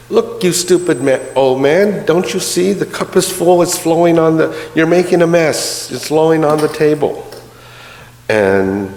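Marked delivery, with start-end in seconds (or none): 0.1-7.2 put-on high, furious yell at the old man; really mad. Merchant yelling at the priest over the spilled tea, high angry shout. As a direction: explode at the overflowing cup, raised and high. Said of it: "is really mad".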